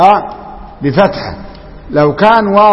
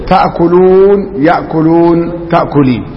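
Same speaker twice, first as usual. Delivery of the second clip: تعداد بطيء; slower than usual. Shown as a demonstration. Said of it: "اللي هي افعال خمسة".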